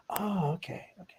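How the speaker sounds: whispered, let-down okay; deflated whisper. Retold or imitated. Fan hearing about the five-dollar fee, whispered and deflated. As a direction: breathe it out like the air left him.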